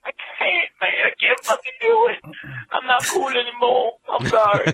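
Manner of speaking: high whiny wail of defeat; half-joking sob of giving up; mock despair. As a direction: cry out like a broken gamer. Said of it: "And you're like".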